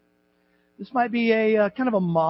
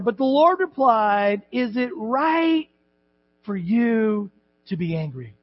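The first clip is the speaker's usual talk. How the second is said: scripture reading; slower than usual. Acted. Reads scripture slowly.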